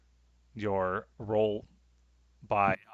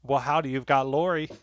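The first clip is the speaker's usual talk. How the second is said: light Southern greeting; 4 semitones higher, 5 dB louder than usual. Acted. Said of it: "she does say".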